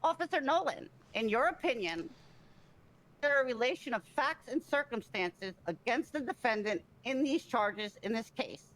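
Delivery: slowly, each word spelled out; re-ask it slowly, word by word; slow and deliberate. Real, not acted. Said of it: "please re-ask the question".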